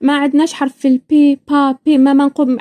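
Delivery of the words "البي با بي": "البي، با، بي" with an unvoiced, puffed p; P sound. Shown as a demonstration. Showing the letter Iraqis lack, "البي، با، بي" with a clear p. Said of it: "ما يعرفوش يقولوا حرف البي".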